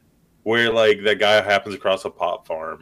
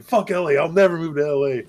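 mock defiance; 8 semitones higher, 4 dB louder than usual. Imitating guy rejecting LA.

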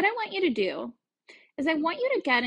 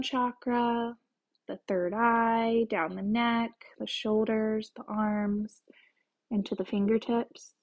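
guided meditation; 2 semitones lower than usual. Acted. Host leads listeners through a chakra visualization, calm guided meditation.

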